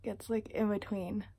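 lips held apart by brush; speaking around dental brush; brush at front teeth. Real, not acted. Seen 0: Holds pink interdental brush against braced front teeth while speaking.

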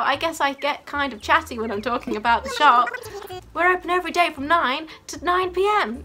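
chatty shopkeeper wrapping up; lightly played eager shop host; lightly voiced shop guide. Shopkeeper finishing the tour and giving hours, lightly voiced guide.

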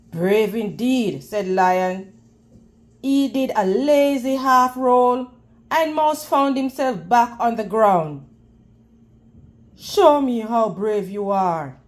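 low, amused lion voice. Acted. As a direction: speak as a lazy king lion. Lion voice in story.

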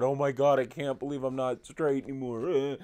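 mocking bigots melting down, overblown sobbing cry; mock hysterical crying. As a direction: play them falling apart in fake despair. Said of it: "they start crying and going".

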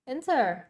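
"Enter" stressed on EN, falling away; first-syllable stress. Shown as a demonstration. Teacher models the word for students, first-syllable stress. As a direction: hit EN in "Enter", weak -ter. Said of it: "âm số một ha".

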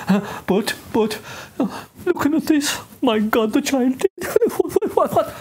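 high, laughing what what; giggling amazement; laughing disbelief. Real, not acted.

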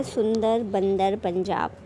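सुंदर बंदर पंजाब spelled out slowly, nasal sounds drawn out; slow nasal word demo. Shown as a demonstration. Teacher shows students the nasal sounds, slowly. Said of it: "अब ज़रा नाक दबाकर".

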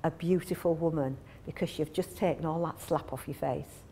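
coaxing partner. Retold or imitated. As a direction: charm her into dropping the makeup. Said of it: "And he goes".

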